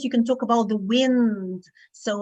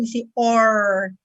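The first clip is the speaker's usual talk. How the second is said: American or; 4 dB louder, slower than usual. Shown as a demonstration. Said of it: "But in American".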